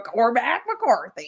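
put-on slow, drawn-out Cormac McCarthy in American accent, laughing; mock American accent. Friend mimicking her reading, slow laughing American accent. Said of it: "just you in my head going".

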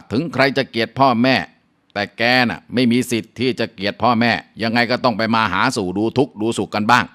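a hint of a harsh mother-in-law scolding; lightly voiced, lecturing her daughter-in-law. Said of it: "แม่ผัวก็ว่า". (แม่ผัวดุด่าลูกสะใภ้ เสียงสูงขึ้นเล็กน้อย)

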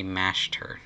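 "Master" said as "Mashter"; exaggerated "mash". Shown as a demonstration. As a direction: say "Master" with a slushy sh in place of the s. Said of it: "I'm putting too much emphasis on the mash".

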